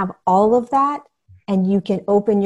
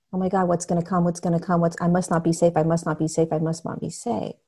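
tense worrying; faster than usual. Acted. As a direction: voice a looping worried thought under your breath. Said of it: "you're tight, you're restricting".

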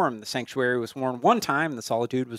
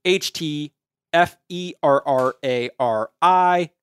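auctioneer voice. Acted. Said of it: "I heard more of an auctioneer voice".

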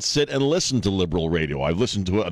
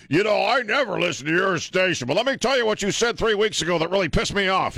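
imitated angry caller, higher pitch; mock angry caller; 11 semitones higher than usual. Host mimics a listener calling in to complain, higher pitched. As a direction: voices a caller griping about the show.

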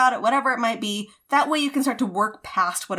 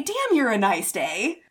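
swooning at the day; slower than usual. Pretend. Speaking to a lovely day, dreamy slow swoon. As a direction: gush to the day like a crush, slowly. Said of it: "you wanna tell this day".

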